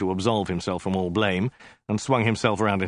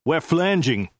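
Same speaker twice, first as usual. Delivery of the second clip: high hissed aside; 7 semitones higher, 3 dB louder than usual. Acted. One head snaps at the other.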